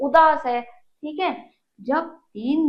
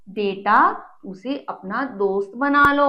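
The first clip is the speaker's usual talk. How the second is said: loving advice. Acted. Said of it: "mummy ने उसे प्यार से समझाते हुए कहा".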